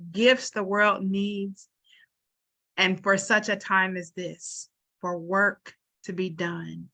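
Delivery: measured, unhurried blessing voice, softening at the end; prayerful sending-off; benediction. Acted. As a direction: bless the audience like a pastor closing service. Closing benediction to panel.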